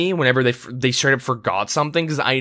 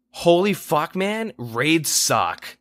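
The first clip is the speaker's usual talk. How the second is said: mock whiny teammate; 4 semitones higher, much slower than usual. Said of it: "they would run in and say".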